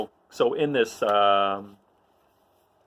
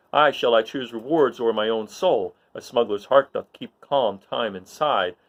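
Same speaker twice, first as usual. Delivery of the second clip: Han soliloquy; 3 semitones higher than usual. Acted. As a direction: muse aloud with a touch of inner conflict. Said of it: "And here's Han".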